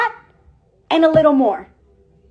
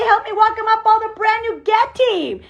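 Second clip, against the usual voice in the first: high, sustained stage call; event announcer; 5 semitones higher than usual. Acted. Host bringing up the Get team, as an announcer. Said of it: "then they're gonna say".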